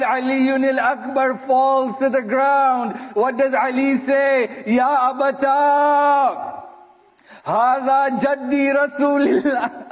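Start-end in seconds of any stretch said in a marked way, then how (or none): 4.7-9.8 slow, anguished call to his father; anguished cry. Acted. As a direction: stretch it out as a dying son crying out. Dying son calls out to father.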